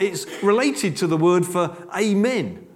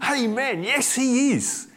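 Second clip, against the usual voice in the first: call-and-response; 7 semitones higher, slower than usual. Retold or imitated. Congregation response acted out.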